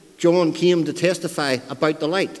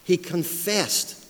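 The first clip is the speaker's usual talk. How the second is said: "confessed" drawn out slowly; slow, deliberate weight on "confessed"; stress on confessed; much slower than usual. Retold or imitated. Preacher quoting the repeated word, stressed "confessed". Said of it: "we have the word stressed twice".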